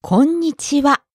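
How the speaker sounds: こんにちは with the ん held a little; held n sound. Shown as a demonstration. Teacher showing listeners correct pronunciation, こんにちは with a held ん. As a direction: linger briefly on the ん in こんにちは. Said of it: "You hold the n sound for a little bit".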